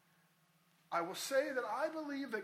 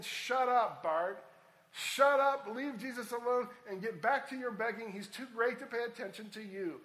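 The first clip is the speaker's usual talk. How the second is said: loud, higher-pitched rebuke; scolding crowd; 3 semitones higher, 8 dB louder than usual. Acted. Crowd silencing a blind beggar, loud scolding. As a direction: shut him down loudly and impatiently. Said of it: "are essentially saying".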